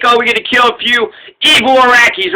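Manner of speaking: mock-eager sarcasm, lightly put on; tongue-in-cheek. Writer mimicking his own satirical article, tongue-in-cheek. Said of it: "being tongue-in-cheek".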